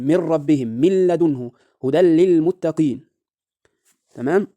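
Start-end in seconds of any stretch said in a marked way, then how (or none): 0.0-3.0 من ربهم as "mir-rabbihim", n wholly merged; من لدنه and هدى للمتقين with doubled l, no nasal hum; full idgham. Shown as a demonstration. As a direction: recite each with the n lost in the following consonant. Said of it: "إدغام كامل".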